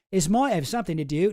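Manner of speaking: put-on an Australian accent sliding into Cockney; Australian slipping Cockney. Reading the clipping as the accent slips toward Cockney. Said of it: "now I'm going Cockney".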